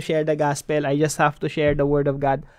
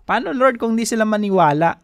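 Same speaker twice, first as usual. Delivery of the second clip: pleading Moses; 5 semitones higher, 3 dB louder than usual. Acted. Preacher voicing Moses doubting the Lord, higher, pleading. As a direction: pitch lifted higher, a doubtful plea. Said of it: "Si Moses din, ganun yung excuse niya".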